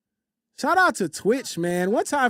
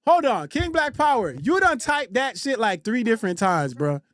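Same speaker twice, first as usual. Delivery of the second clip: incredulous call-out. Real, not acted. Streamer confronting a chatter over repeated typing, incredulous.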